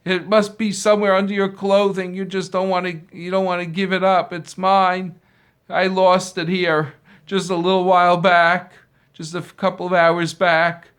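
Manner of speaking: loud, high, furious accusing; angry accusation. Acted. Owner furiously accusing the beaten man of hiding the belt. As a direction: rage at him while beating him.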